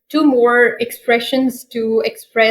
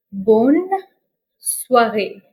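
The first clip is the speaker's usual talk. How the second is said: syllable by syllable; slower than usual. Shown as a demonstration.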